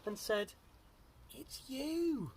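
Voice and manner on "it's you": high, swooping exclamation; amused reveal. A narrator's reading. Duckbills tell Drip it's his reflection, high amused reveal. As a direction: sing out the answer high. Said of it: "And they laughed".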